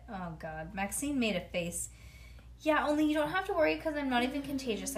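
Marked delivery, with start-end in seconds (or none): 2.6-5.0 fast and eager. Acted. Child reassuring quickly.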